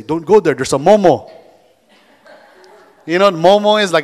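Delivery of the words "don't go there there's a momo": mock spooky warning to a kid; scaring relatives. Aunt scaring a child away from there, mock spooky warning. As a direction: warn the kid off like a teasing aunt. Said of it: "they would say".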